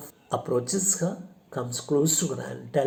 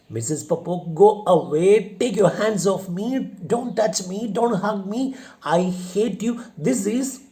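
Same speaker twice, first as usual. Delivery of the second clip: loud, high, fast, pushing him off; angry protest; 6 semitones higher, 4 dB louder than usual. Acted. Widow shoving off the embracing suitor, loud and high. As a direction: fight him off with every word.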